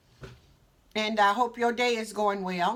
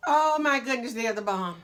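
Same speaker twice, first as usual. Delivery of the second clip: delighted; 4 dB louder than usual. Real, not acted. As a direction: burst out with delight. Savoring her pasta.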